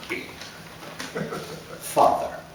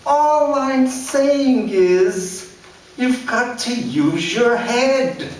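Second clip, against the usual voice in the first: forced calm; 14 semitones higher, 5 dB louder, much slower than usual. A narrator's reading. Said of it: "attempting a calmer voice".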